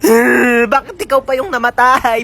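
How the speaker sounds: mock wailing. Mourner wailing over the dead.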